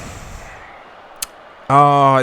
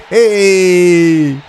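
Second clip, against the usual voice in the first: shout; 5 semitones higher, 6 dB louder than usual. Real, not acted. Celebrating a lucky moment.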